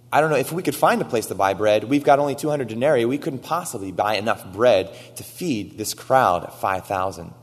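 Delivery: hurried, fretful disciple voicing; voicing Philip. Philip voiced in retelling.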